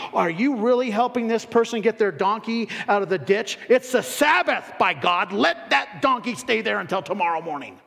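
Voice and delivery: mock outrage over the Sabbath; legalistic critic. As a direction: scold like a rule-bound Pharisee. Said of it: "They didn't care about what he was doing".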